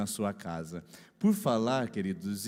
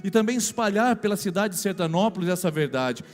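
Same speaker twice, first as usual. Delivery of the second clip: rising, forceful preacher's proclamation; fervent preaching; 8 semitones higher, 7 dB louder than usual. Acted. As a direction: declare it like a revival preacher. Pastor declares against city's sins.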